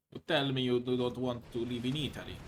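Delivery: put-on Italian accent, playful; mock Italian accent. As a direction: tease them in a hammy Italian accent. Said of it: "that was still Italian".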